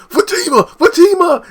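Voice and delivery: high, loud desperate yell; yelling out a name. Retold or imitated. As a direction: shout after her as you're beaten. Man being beaten calls her.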